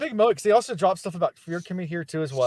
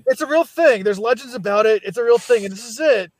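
excited hype; 6 semitones higher, 4 dB louder than usual. Retold or imitated. Kel hyping the eleventh metal.

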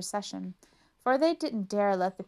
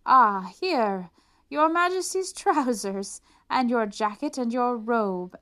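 much louder, higher, slow flourish; showy swindlers; 4 semitones higher, 8 dB louder, slower than usual. Acted. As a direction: present each piece grandly. Swindlers presenting clothes.

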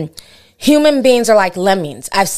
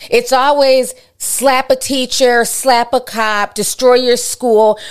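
a frustrated mom lecturing her son; 3 semitones higher than usual. Retold or imitated. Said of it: "now I'm talking my mom voice".

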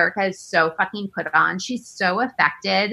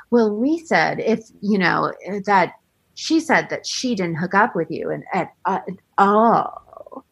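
soap opera drama; 3 semitones lower than usual. Retold or imitated. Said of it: "soap opera, like, very dramatic".

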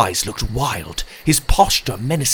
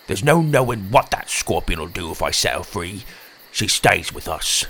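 low croaky refusal; firm croaky creature; 4 semitones lower than usual. Acted. Tim refusing in character.

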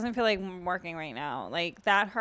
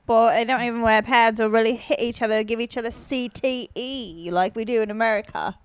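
mock British accent; 3 dB louder than usual. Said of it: "your British accent's making me".

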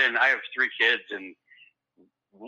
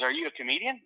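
higher mock Rob; 11 semitones higher, 5 dB quieter than usual. Rob's question, retold.

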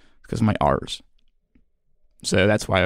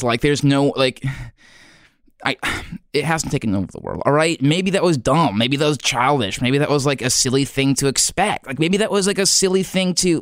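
upset; 5 semitones higher than usual. Real, not acted. Upset rant about the podcast.

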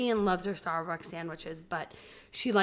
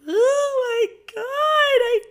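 imitated scream crying; 10 dB louder than usual. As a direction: howl his name like a little girl in tears. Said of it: "Vivian's scream crying".

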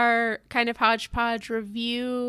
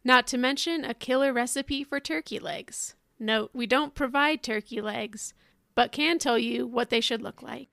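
ad read. Acted. Reads a mock wedding ad.

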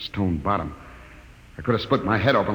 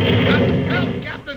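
frightened cry for help; 5 dB louder, much slower than usual. Acted. Briggs falling into a shaft.

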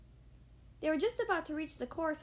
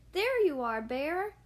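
louder, relieved glad exclaim; 2 semitones higher, 6 dB louder than usual. Acted. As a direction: call out to him happily. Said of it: "exclaimed Charlie".

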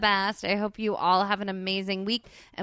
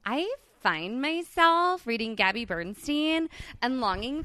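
put-on Valley Girl; 2 semitones higher than usual. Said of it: "Let's do it like Valley Girls".

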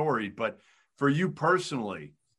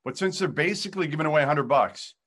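ad read; 3 semitones higher than usual. Acted. Sponsor read mid-interview.

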